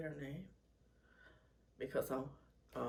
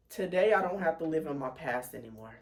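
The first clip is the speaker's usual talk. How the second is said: after crying; 8 dB louder than usual. Real, not acted. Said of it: "A little teary".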